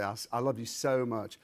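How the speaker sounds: low, soft North Carolina O; North Carolina accent. Shown as a demonstration. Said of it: "sounds like the O sound".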